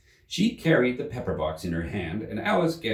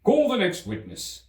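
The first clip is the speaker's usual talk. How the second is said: louder, higher command; commanding King; 12 semitones higher, 3 dB louder than usual. Acted. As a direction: summon the next witness.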